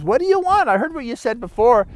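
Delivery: high, lightly voiced irritated old man; a hint of a fed-up old man; annoyed old man. Old man snaps back at the nagging frog, lightly voiced and irritated.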